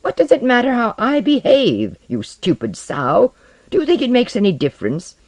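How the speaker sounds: loud, high-pitched, bitter tirade; angry outburst. Acted. Osden rails at Tomiko about being hated, furious.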